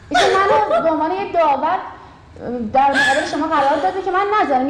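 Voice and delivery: chuckling through the words; laughing. Real, not acted. Judge laughing while telling the kids her role, chuckling. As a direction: laugh as you explain your job.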